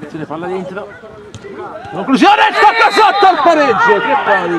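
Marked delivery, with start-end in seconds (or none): 1.9-4.6 climbing high on the shot; excited commentary. Real, not acted. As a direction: rise fast as the shot goes. (telecronaca concitata)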